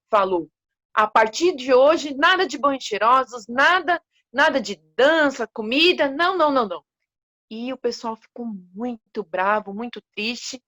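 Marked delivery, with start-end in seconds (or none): 0.9-6.8 emphatic decree. Acted. King Leopard banning baths and dancing, emphatic and firm. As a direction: lay down the law like a stern king. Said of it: "foi enfático".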